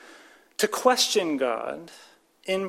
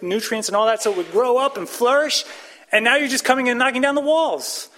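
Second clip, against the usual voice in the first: impassioned psalmist plea; 4 semitones higher, 4 dB louder than usual. Acted. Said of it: "He's saying".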